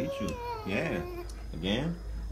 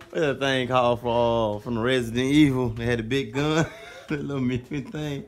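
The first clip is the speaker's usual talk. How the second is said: excited; 9 dB louder than usual. Real, not acted. Loud excited question.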